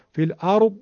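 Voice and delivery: "الارض" cut off on a silent stopped d; trapped Dad. Shown as a demonstration. Teacher showing how the sound gets lost, stopped d. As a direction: stop "الارض" dead at the d, no release.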